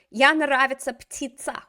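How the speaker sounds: student's wrong version. Retold or imitated. Teacher quotes the student's wrong sentence. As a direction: read back the mistake. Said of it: "let's go back to our бедняжка".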